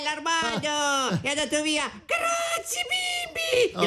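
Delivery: high excited shouting; overjoyed shout. Real, not acted. Hiccups gone, overjoyed.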